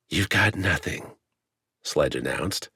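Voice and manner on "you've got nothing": cold and hard. A narrator's reading. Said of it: "frigid iron on her words".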